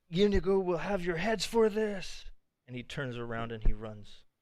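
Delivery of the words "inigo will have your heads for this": high, loud, hollering creature voice. Voicing a fleeing Gnoll who threatens the players: Gnoll yelling a threat. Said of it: "he yells out".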